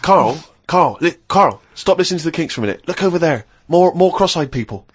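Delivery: a hint of someone pestering Carl with the word Carl; mock nagging inner voice. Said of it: "Whereas you have".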